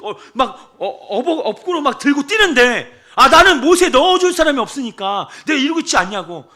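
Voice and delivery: half-hammed plea from the poolside; mock complaining sick man. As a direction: act out his self-pity. Acting out the sick man's complaint.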